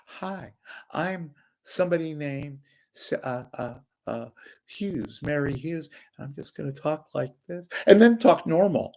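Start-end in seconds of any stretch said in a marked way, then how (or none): 0.0-7.7 mocking impression. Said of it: "The one who talks like this".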